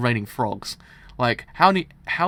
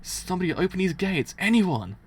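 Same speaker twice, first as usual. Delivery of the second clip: calling for help; 6 semitones higher, 4 dB louder than usual. Acted. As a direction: shout to be let out, higher and louder. Trapped, shouting for help.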